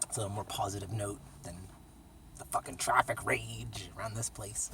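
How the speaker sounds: soft whisper; whispered aside. Real, not acted. Softer aside.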